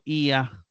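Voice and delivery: "i, a" as two syllables, not a diphthong; "i, a" with the accent on i; hiatus demonstration. Shown as a demonstration. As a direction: stress "i", then let "a" follow separately. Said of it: "no forman diptongo".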